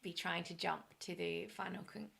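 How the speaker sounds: hoarse, failing voice; losing voice. Real, not acted. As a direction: voice giving out mid-sentence. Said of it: "I'm just losing my voice".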